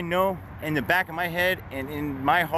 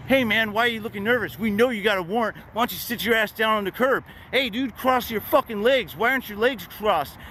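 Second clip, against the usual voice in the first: high, fast, bullying cop voice; bossy cop; 6 semitones higher than usual. Retold or imitated. Cops jumping out of the car, high mocking tone. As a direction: play the cops barking orders. Cops ordering him around.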